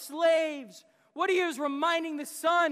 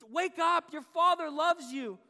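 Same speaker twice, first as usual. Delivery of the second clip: raised, insistent voice of a father; a father's emphatic appeal, slightly raised; urgent wake-up call; 2 semitones higher than usual. Retold or imitated. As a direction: call out to rouse a son.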